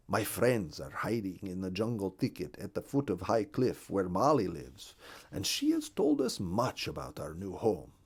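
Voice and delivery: lightly voiced bird recounting a journey; a touch of character voice, earnest storytelling; Hungarian the Partridge. Partridge telling the bluebird of his capture and journey, lightly voiced.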